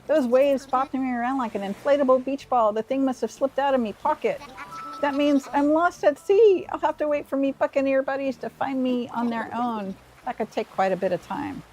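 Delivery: a hint of a jolly seagull pirate, arr-ing along; lightly voiced pirate. Reading the stranded pirate's lines to the player, mild pirate voice. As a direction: read it like a sleepy, hearty old sea dog, light touch.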